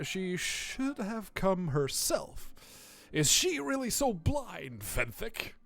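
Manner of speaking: slow, lightly voiced scornful cleric; a touch of haughty exasperation; disdainful cleric, reproachful. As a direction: draw out the reproach. Voices Dester reading game dialogue.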